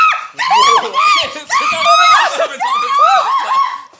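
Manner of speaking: high, loud burst of laughter; loud shrieking laugh. Real, not acted. Couple laughs as the prank lands, loud high shriek. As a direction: crack up at the prank.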